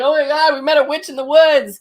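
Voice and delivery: high, loud thrilled retelling; giddy wonder at meeting a witch; excited gush. Retold or imitated. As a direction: burst out with giddy news. Friends telling of witch encounter.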